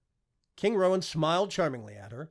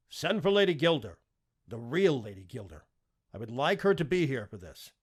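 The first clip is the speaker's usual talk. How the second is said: commanding king; 6 dB louder than usual. Acted.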